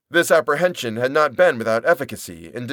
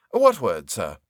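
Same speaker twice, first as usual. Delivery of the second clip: respectful Turkey; 2 semitones lower, slower than usual. Acted. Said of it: "respectfully crowding himself".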